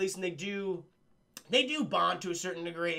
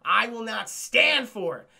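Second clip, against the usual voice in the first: mock incensed scolding; 4 dB louder than usual. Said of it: "he's incensed".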